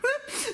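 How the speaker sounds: a sudden high-pitched laugh; cracking up again; high giggle. Real, not acted. Laughing at own pronunciation.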